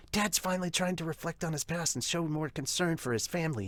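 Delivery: a hint of a soft-spoken sister, quiet and coaxing; gentle older sister. Voices the older sister, gently scolding.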